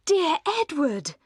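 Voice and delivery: high, slow, drawn-out greeting; lifted, lingering cry of welcome; cried out fondly. A narrator's reading. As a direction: call his name out with delight. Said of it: "she cried".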